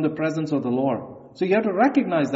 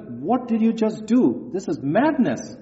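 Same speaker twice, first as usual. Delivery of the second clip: indignant; 3 semitones higher than usual. Retold or imitated. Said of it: "he was indignant".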